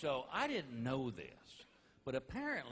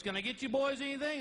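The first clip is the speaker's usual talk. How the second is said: much higher, louder sweet waitress voice; mock breathy flirty waitress, pitched up; 11 semitones higher, 5 dB louder than usual. Topless waitress voiced in story.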